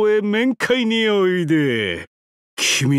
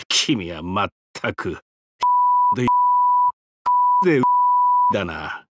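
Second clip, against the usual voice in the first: laughing through words; 10 semitones lower than usual. Acted. Laughing fit mid-sentence.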